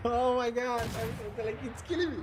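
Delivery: high, giggly "oh my god"; laughing. Real, not acted. Streamer still laughing at his own impression. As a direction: still cracking up. Cracking up after the imitation.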